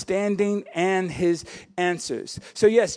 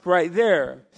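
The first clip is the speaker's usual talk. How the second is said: irritated surprise; 5 dB louder, slower than usual. Retold or imitated. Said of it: "irritated and surprised".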